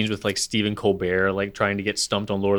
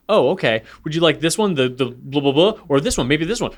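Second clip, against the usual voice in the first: higher, louder eager know-it-all rattling off options; Stephen Colbert; 6 semitones higher, 6 dB louder than usual. Retold or imitated. Colbert answering a Lord of the Rings challenge, showing off. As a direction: imitate a trivia nerd reeling off answers. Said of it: "And Colbert's like".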